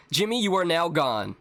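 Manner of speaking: theatrical mourning, falling at the end; mock the stilted farewell; mock lament. Player mimics father mourning Jimmy, melodramatic. Repeats Papa's lament, mocking it.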